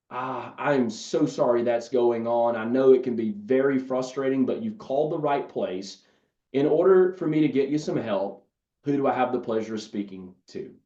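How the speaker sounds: calm the frustrated customer down; reassuring. Shown as a demonstration. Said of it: "And I just simply say".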